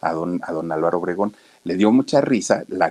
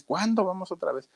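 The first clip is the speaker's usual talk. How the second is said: high whiny plea, dropped much softer; nagging child, softer; 10 semitones higher, 5 dB quieter than usual. Retold or imitated. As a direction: pester mom again, softer and high. Boy nagging his mother.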